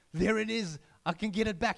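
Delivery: thrilled to spot the lost boat; boy excitedly spotting his lost sailboat. Acted. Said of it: "He was so excited".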